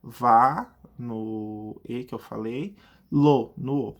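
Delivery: put-on child reading. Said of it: "a criança vai apontar o dedinho".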